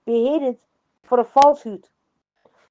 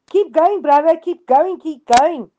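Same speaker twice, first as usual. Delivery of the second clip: imitated congregation shout, pitched up at first; retold shout; 4 semitones higher, 4 dB louder than usual. Men in the congregation cheering the preacher, retold shouting. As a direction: urge the preacher on in a moderate mock shout. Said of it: "men in the congregation shouted".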